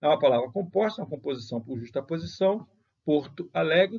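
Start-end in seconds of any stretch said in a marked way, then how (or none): 3.0-4.0 "Porto Alegre" with both POR and LE stressed; duas sílabas tônicas. Shown as a demonstration. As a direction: give "Porto Alegre" two beats, PORto aLEgre. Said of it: "duas sílabas tônicas". ("Porto Alegre" com acento em POR e em LE)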